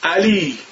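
علی with the Persian a, ali. Shown as a demonstration. Teacher showing the Persian vowel in علی.

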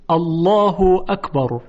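الله اکبر with a thick, dark l in Allah; heavy lam. Shown as a demonstration. Teacher giving another example, heavy-lam الله اکبر.

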